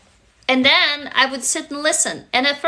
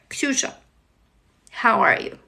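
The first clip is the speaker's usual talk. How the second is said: gentle, unhurried check-in with pauses between questions; tender, spaced-out questions to a little child; talking to inner child. Shown as a demonstration. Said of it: "So I would tell her".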